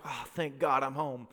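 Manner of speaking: low, soft sigh of relief; relieved. Retold or imitated. Traveler looking out the plane window, softly relieved. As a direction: let it out softly, relieved to arrive. Retold relief on flying home.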